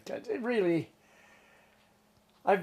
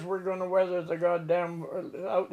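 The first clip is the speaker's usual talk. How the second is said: higher, mildly raised skipper's voice; retold insistence; 4 semitones higher than usual. Skipper refuses to head in from weather, insistent. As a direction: insist on staying put.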